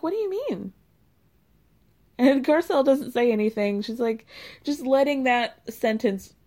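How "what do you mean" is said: mock confused question. Everybody quoted confused.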